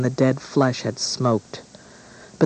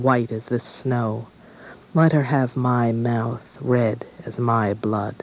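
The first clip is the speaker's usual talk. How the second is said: a slow, grave incantation; slow solemn wish. Acted. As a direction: speak each wish like a spell. Dying queen's solemn wish.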